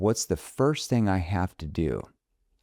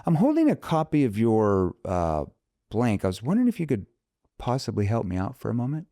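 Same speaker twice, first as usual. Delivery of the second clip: easygoing friendly call, pitched up; familiar tone opener; 8 semitones higher than usual. Shown as a demonstration. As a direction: open like you already know them. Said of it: "I'm like".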